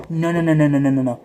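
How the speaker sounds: rapid loud string of no's. Real, not acted. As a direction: shut the idea down loudly. Emphatic rejection of esports.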